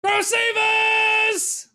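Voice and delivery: hammed-up show announcement; announcer call. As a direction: boom out the segment name like a host. Announcing next segment.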